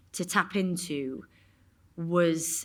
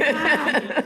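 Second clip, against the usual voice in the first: surprised ah; 8 semitones higher, 10 dB louder than usual. Retold or imitated. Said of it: "So I was like".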